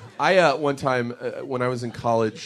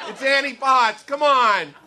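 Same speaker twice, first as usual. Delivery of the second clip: higher, louder, quicker "It's Annie Potts" with a laugh; exasperated God; 10 semitones higher, 5 dB louder, slower than usual. Acted. God scolding the stoned friends, high and loud. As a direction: snap it at them, fed up. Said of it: "I picture God up in heaven, like, watching us going".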